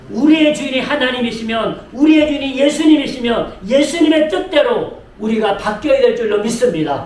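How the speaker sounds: forceful preaching in measured phrases; emphatic preaching. Real, not acted. Pastor urging the congregation to change as Jesus wills, emphatic preaching. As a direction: press each clause home to the congregation.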